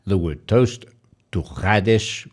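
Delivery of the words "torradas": torradas with a rolled, trilled R; rolled double R. Shown as a demonstration. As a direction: roll the R in torradas hard. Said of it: "also double R".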